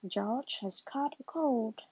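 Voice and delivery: slow, calm doctor diagnosing. Acted. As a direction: give the diagnosis slowly like a kind doctor. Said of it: "says Doctor Brown Bear".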